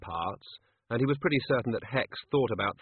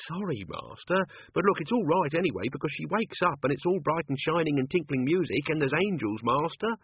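put-on higher, anxious old servant; 5 semitones higher than usual. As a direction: fret like a nervous manservant. Albert explaining nervously.

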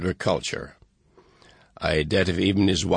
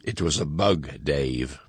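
a lightly voiced silken, sinister computer, lower; hint of a calm menacing machine, dropping lower; silken sinister HAL; 5 semitones lower, 3 dB quieter, slower than usual. Super Bowl ad, the computer telling Dave, lightly silken and sinister. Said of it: "in a silken yet sinister voice".

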